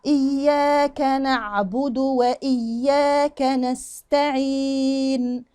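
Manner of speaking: very slow recitation with held letters; measured recitation. Shown as a demonstration. Teacher models the whole verse, slow measured recitation. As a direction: recite evenly, sustaining the doubled yaa and long ending. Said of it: "تمام؟".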